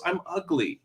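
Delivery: put-on quiet childlike confession; hurt child. Voices the hurt child in retelling.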